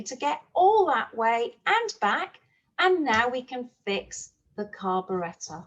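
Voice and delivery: lively storytime narration with voiced characters; storyteller reading a farm tale to young children; story for children. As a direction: read it like a picture book to a class.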